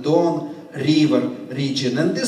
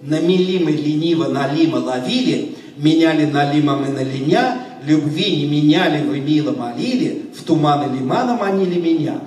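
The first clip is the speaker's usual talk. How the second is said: slow tongue twister; faster than usual. Shown as a demonstration. Performer first demonstrating the fishermen tongue twister slowly. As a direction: say each phrase carefully and unhurried. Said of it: "I'm going to say it slowly first".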